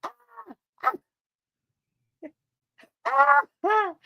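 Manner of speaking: hammed-up panicked screams while stuck; imitating screams. Stuck on the walkway, screaming to mom on the phone, high mock screams. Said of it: "all I can say is".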